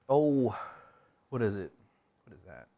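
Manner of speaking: talking with food in mouth; mouth full. Real, not acted. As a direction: struggle to talk mid-bite. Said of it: "Golly, I can't even talk right now".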